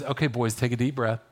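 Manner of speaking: soft, calm, reassuring; mother gently soothing her boys. Retold or imitated. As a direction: lean in and calm anxious kids. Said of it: "the mom just leans in and says".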